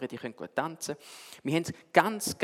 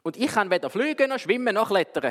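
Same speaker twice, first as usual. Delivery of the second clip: a mild higher, louder elephant call; trumpeting elephant; 6 semitones higher, 4 dB louder than usual. Acted. Elephant calf complains to the owl, with a mild trumpeting call. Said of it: "hat der Elefant trötet".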